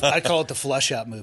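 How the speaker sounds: says it through laughter; can barely keep it together; laughing. Real, not acted. Joking about shotgun home defense.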